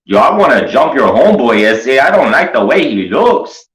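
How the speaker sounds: hammed-up street tough sizing someone up; hood guy voice. The homeboys threatening to jump the strange friend. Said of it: "They'd be like".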